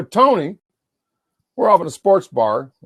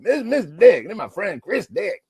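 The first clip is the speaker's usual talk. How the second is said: tag; 7 semitones higher than usual. Retold or imitated. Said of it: "He loves saying my name".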